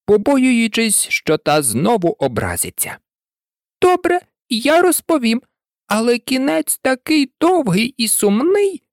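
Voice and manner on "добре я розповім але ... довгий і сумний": high-voiced, mildly mournful mouse; sighing mouse. A narrator's reading. Mouse agrees to tell Alice the long sad tale, sighing. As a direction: sigh it out in a raised character voice. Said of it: "обертаючись до Аліси і зітхаючи".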